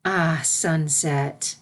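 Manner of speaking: slow, drawn-out fond hello; warm greeting. Acted. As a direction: greet your young student warmly and unhurried. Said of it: "She smiled warmly".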